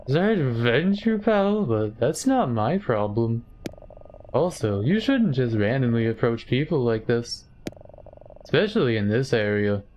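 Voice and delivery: stiff, hammed-up video game stranger; Silent Hill voice acting. Streamer voicing the annoyed business guy, hammed-up game voice. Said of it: "my best Silent Hill two voice acting impression".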